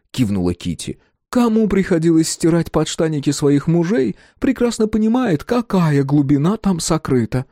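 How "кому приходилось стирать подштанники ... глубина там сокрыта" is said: high, dry mocking voice; wry jab at husbands; sarcastic Kitty. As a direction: undercut the point with sarcasm.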